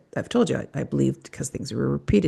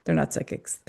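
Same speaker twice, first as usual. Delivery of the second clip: whispered aside. Real, not acted. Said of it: "repeated, whispered".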